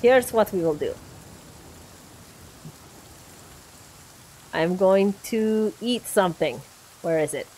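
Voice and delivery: mock Russian accent over game commentary. Gamer attacking a viewer on request, in a Russian accent. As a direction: keep up the put-on Russian accent. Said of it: "I will do my best to attack you with Russian accent".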